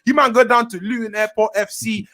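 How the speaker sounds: high-pitched rallying hype rant; hype merchant. Real, not acted. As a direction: gas up the team and taunt the rivals. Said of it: "I'm a hype merchant".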